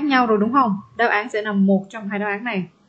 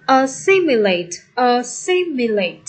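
"assimilate" slowly, with a long -SIM-; stress on second syllable; slower than usual. Shown as a demonstration. Teacher showing students the stressed syllable, stress on second syllable. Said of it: "Nhấn âm hai".

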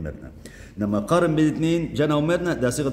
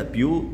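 "بيو" held alone as the first syllable; 3 semitones higher, slower than usual. Shown as a demonstration. Teacher showing how a long adjective is pronounced, syllable by syllable. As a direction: break off after "بيو", leaving it hanging. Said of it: "لما أجي أنطقها كده".

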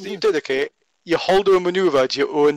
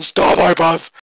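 raised-voice mock yell, louder than chat; imitated scream; 5 dB louder, slower than usual. Imitating Tom screaming in your ear, mock yell. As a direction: mimic someone yelling in your ear. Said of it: "screaming in your ear going".

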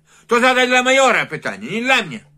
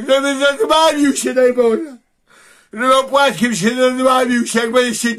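mock heartfelt thanks; 3 semitones higher than usual. Real, not acted. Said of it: "chciałem tobie tylko powiedzieć".

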